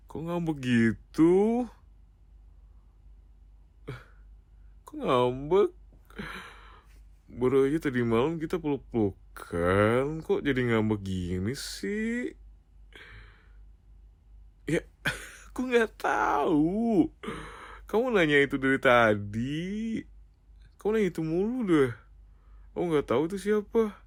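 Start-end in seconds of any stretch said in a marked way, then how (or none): 0.1-5.7 whiny coaxing. Acted. Whining at a sulking partner. 14.7-23.9 high-pitched, pleading denial; plaintive, defensive whine; whiny protest. Acted. Protesting innocence to jealous partner.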